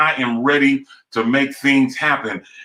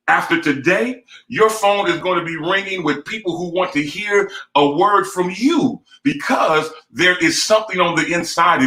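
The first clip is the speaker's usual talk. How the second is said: speaking into her life. Real, not acted. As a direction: proclaim her future like a preacher. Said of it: "let me just speak into the life".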